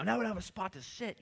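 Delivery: high grumble; grumbling Martha. Retold or imitated. Martha grumbling, lightly voiced, as they arrive late. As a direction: complain you're late.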